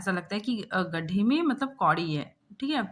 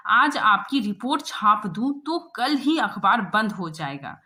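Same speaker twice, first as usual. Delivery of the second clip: scolding; 4 dB louder than usual. Acted. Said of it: "प्रधान संवाददाता डांट रहा है".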